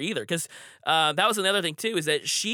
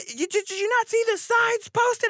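high-pitched imitation of an irate woman; stammered, then shrieked accusation; mimicked screaming. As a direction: screech the question in outrage. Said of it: "she's just screaming and screaming".

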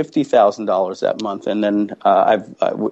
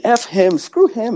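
defiant outburst; 11 semitones higher, slower than usual. Retold or imitated. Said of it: "I'm saying".

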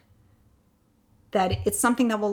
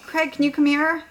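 raised voice, higher, calling to another room; 7 semitones higher, 7 dB louder than usual. Retold or imitated. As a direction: call him up the stairs. Calling husband up from downstairs.

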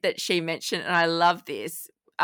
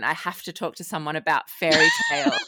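laughing read-out; faster than usual. Retold or imitated. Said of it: "subject line".

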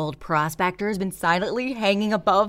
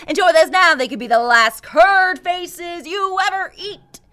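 dramatic; 6 semitones higher, 11 dB louder than usual. Acted. Dramatic ominous warning.

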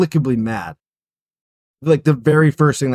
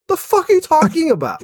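high disbelieving outburst; incredulous; 14 semitones higher than usual. Real, not acted. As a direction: shriek of disbelief at the cop's logic.

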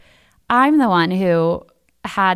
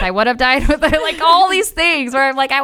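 laughing; 8 semitones higher, 6 dB louder than usual. Real, not acted. Laughing at her own frailty.

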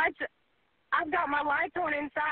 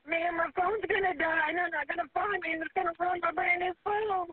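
crying. Real, not acted. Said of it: "you're over there crying for your life".

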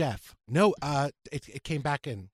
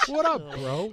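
mock dude-bro hello; frat bro; 4 dB louder, slower than usual. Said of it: "It's like a straight guy thing".

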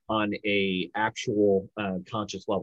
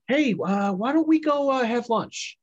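"why don't we go, uh, have lunch" pitched way up; question inflection; 13 semitones higher, 4 dB louder, slower than usual. Shown as a demonstration. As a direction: lift "why don't we go" high, as an invitation. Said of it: "A question or, or a statement or a command?".

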